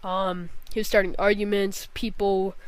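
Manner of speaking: talking through burps; holding back burps. Real, not acted. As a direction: speak while stifling a burp. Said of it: "I keep, I keep burping".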